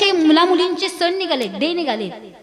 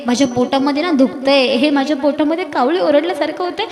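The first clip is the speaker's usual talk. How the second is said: put-on hungry child complaining; 4 dB louder than usual. Hungry orphan child answers friends.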